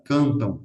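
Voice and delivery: CANTAN with strongly nasal vowels; marked nasalization. Shown as a demonstration. Teacher demonstrating Portuguese nasalization, CANTAN nasalized. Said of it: "esta nasalización tendrá que estar marcada".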